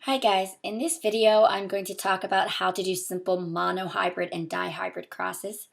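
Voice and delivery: hoarse from a sore throat; talking through a sore throat. Real, not acted. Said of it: "I do have a really sore throat".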